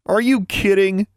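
high, drawn-out incredulous guffaw; acted, slow high-pitched hoot of amusement; guffawing disbelief. A narrator's reading. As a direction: stretch it out in hooting disbelief. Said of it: "he guffawed".

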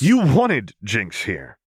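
a touch of anger, words drawn out; snapping. Acted. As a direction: snap it back at her, cutting in. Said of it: "Vi snapped".

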